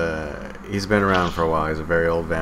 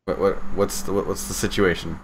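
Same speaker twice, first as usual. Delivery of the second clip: businesslike but stumbling over words; halting character voice. Acted. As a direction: stammer and restart the question. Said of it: "he talks just like that too".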